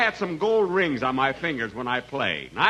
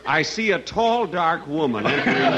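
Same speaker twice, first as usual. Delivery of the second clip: mock fortune teller; 3 dB louder than usual. Jack poses as gypsy fortune teller.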